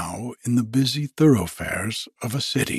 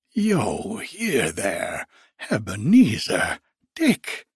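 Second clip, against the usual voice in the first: put-on jovial fat old man; 2 semitones lower than usual. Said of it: "in a comfortable, oily, rich, fat, jovial voice".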